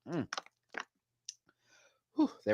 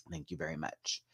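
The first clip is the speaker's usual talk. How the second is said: much softer, dry thank you; muttered thanks; 7 semitones lower, 16 dB quieter than usual. Pretend. Vlogger repeats the thanks very softly. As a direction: barely say it the second time.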